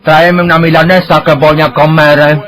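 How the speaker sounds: mock the singers' twisted way of talking; mock Bahian accent. Parodying the Polish band's singers, in a loud mock Bahian accent. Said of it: "acompañado de un estilo de deformidad de vocalización".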